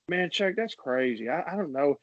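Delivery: lightly imitated exasperated debater; mildly put-on protesting voice; Charles Barkley. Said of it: "arguments between Charles and Shaq, like, in his impressions".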